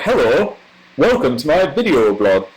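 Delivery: hammed-up northern English vlog greeting; northern English accent. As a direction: put on your old northern English accent. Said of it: "with a really northern accent".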